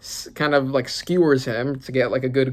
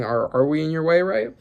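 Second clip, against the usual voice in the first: questioning; 3 semitones higher than usual. Shown as a demonstration. Whitebeard asking Rocks, questioning tone. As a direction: ask it back, as if unsure. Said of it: "so he's kind of questioning".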